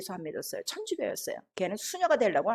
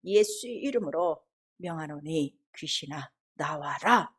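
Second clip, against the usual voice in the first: slow, low, measured command; exorcism command; 6 semitones lower, slower than usual. Retold or imitated. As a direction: order the spirit out, word by word. 귀신에게 나오라는 명령 재연. (낮고 느린 축사 명령)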